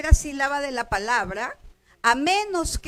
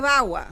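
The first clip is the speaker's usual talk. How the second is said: "bagua" con fuerza en la "ba"; acento en la primera. Shown as a demonstration. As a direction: carga la primera sílaba de "bagua". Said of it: "la fuerza va a ir en la primera sílaba". (acento llano en "bagua", golpe inicial en "ba")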